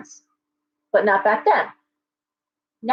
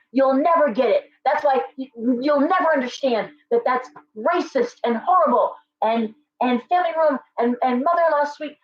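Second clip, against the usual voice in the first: retold angry rant; 4 semitones higher than usual. Angry customer storming out.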